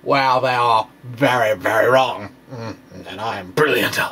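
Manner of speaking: lightly hammed-up boastful crank physicist; a hint of a blustering know-it-all; mock pride bluff. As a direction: play a smug fringe physicist, half-joking. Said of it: "fringe physicist false, you know, pride bluff".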